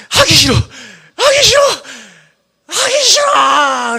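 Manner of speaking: high, drawn-out whine; whining complaint. Retold or imitated. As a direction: whine like a reluctant kid. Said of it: "이렇게 하고".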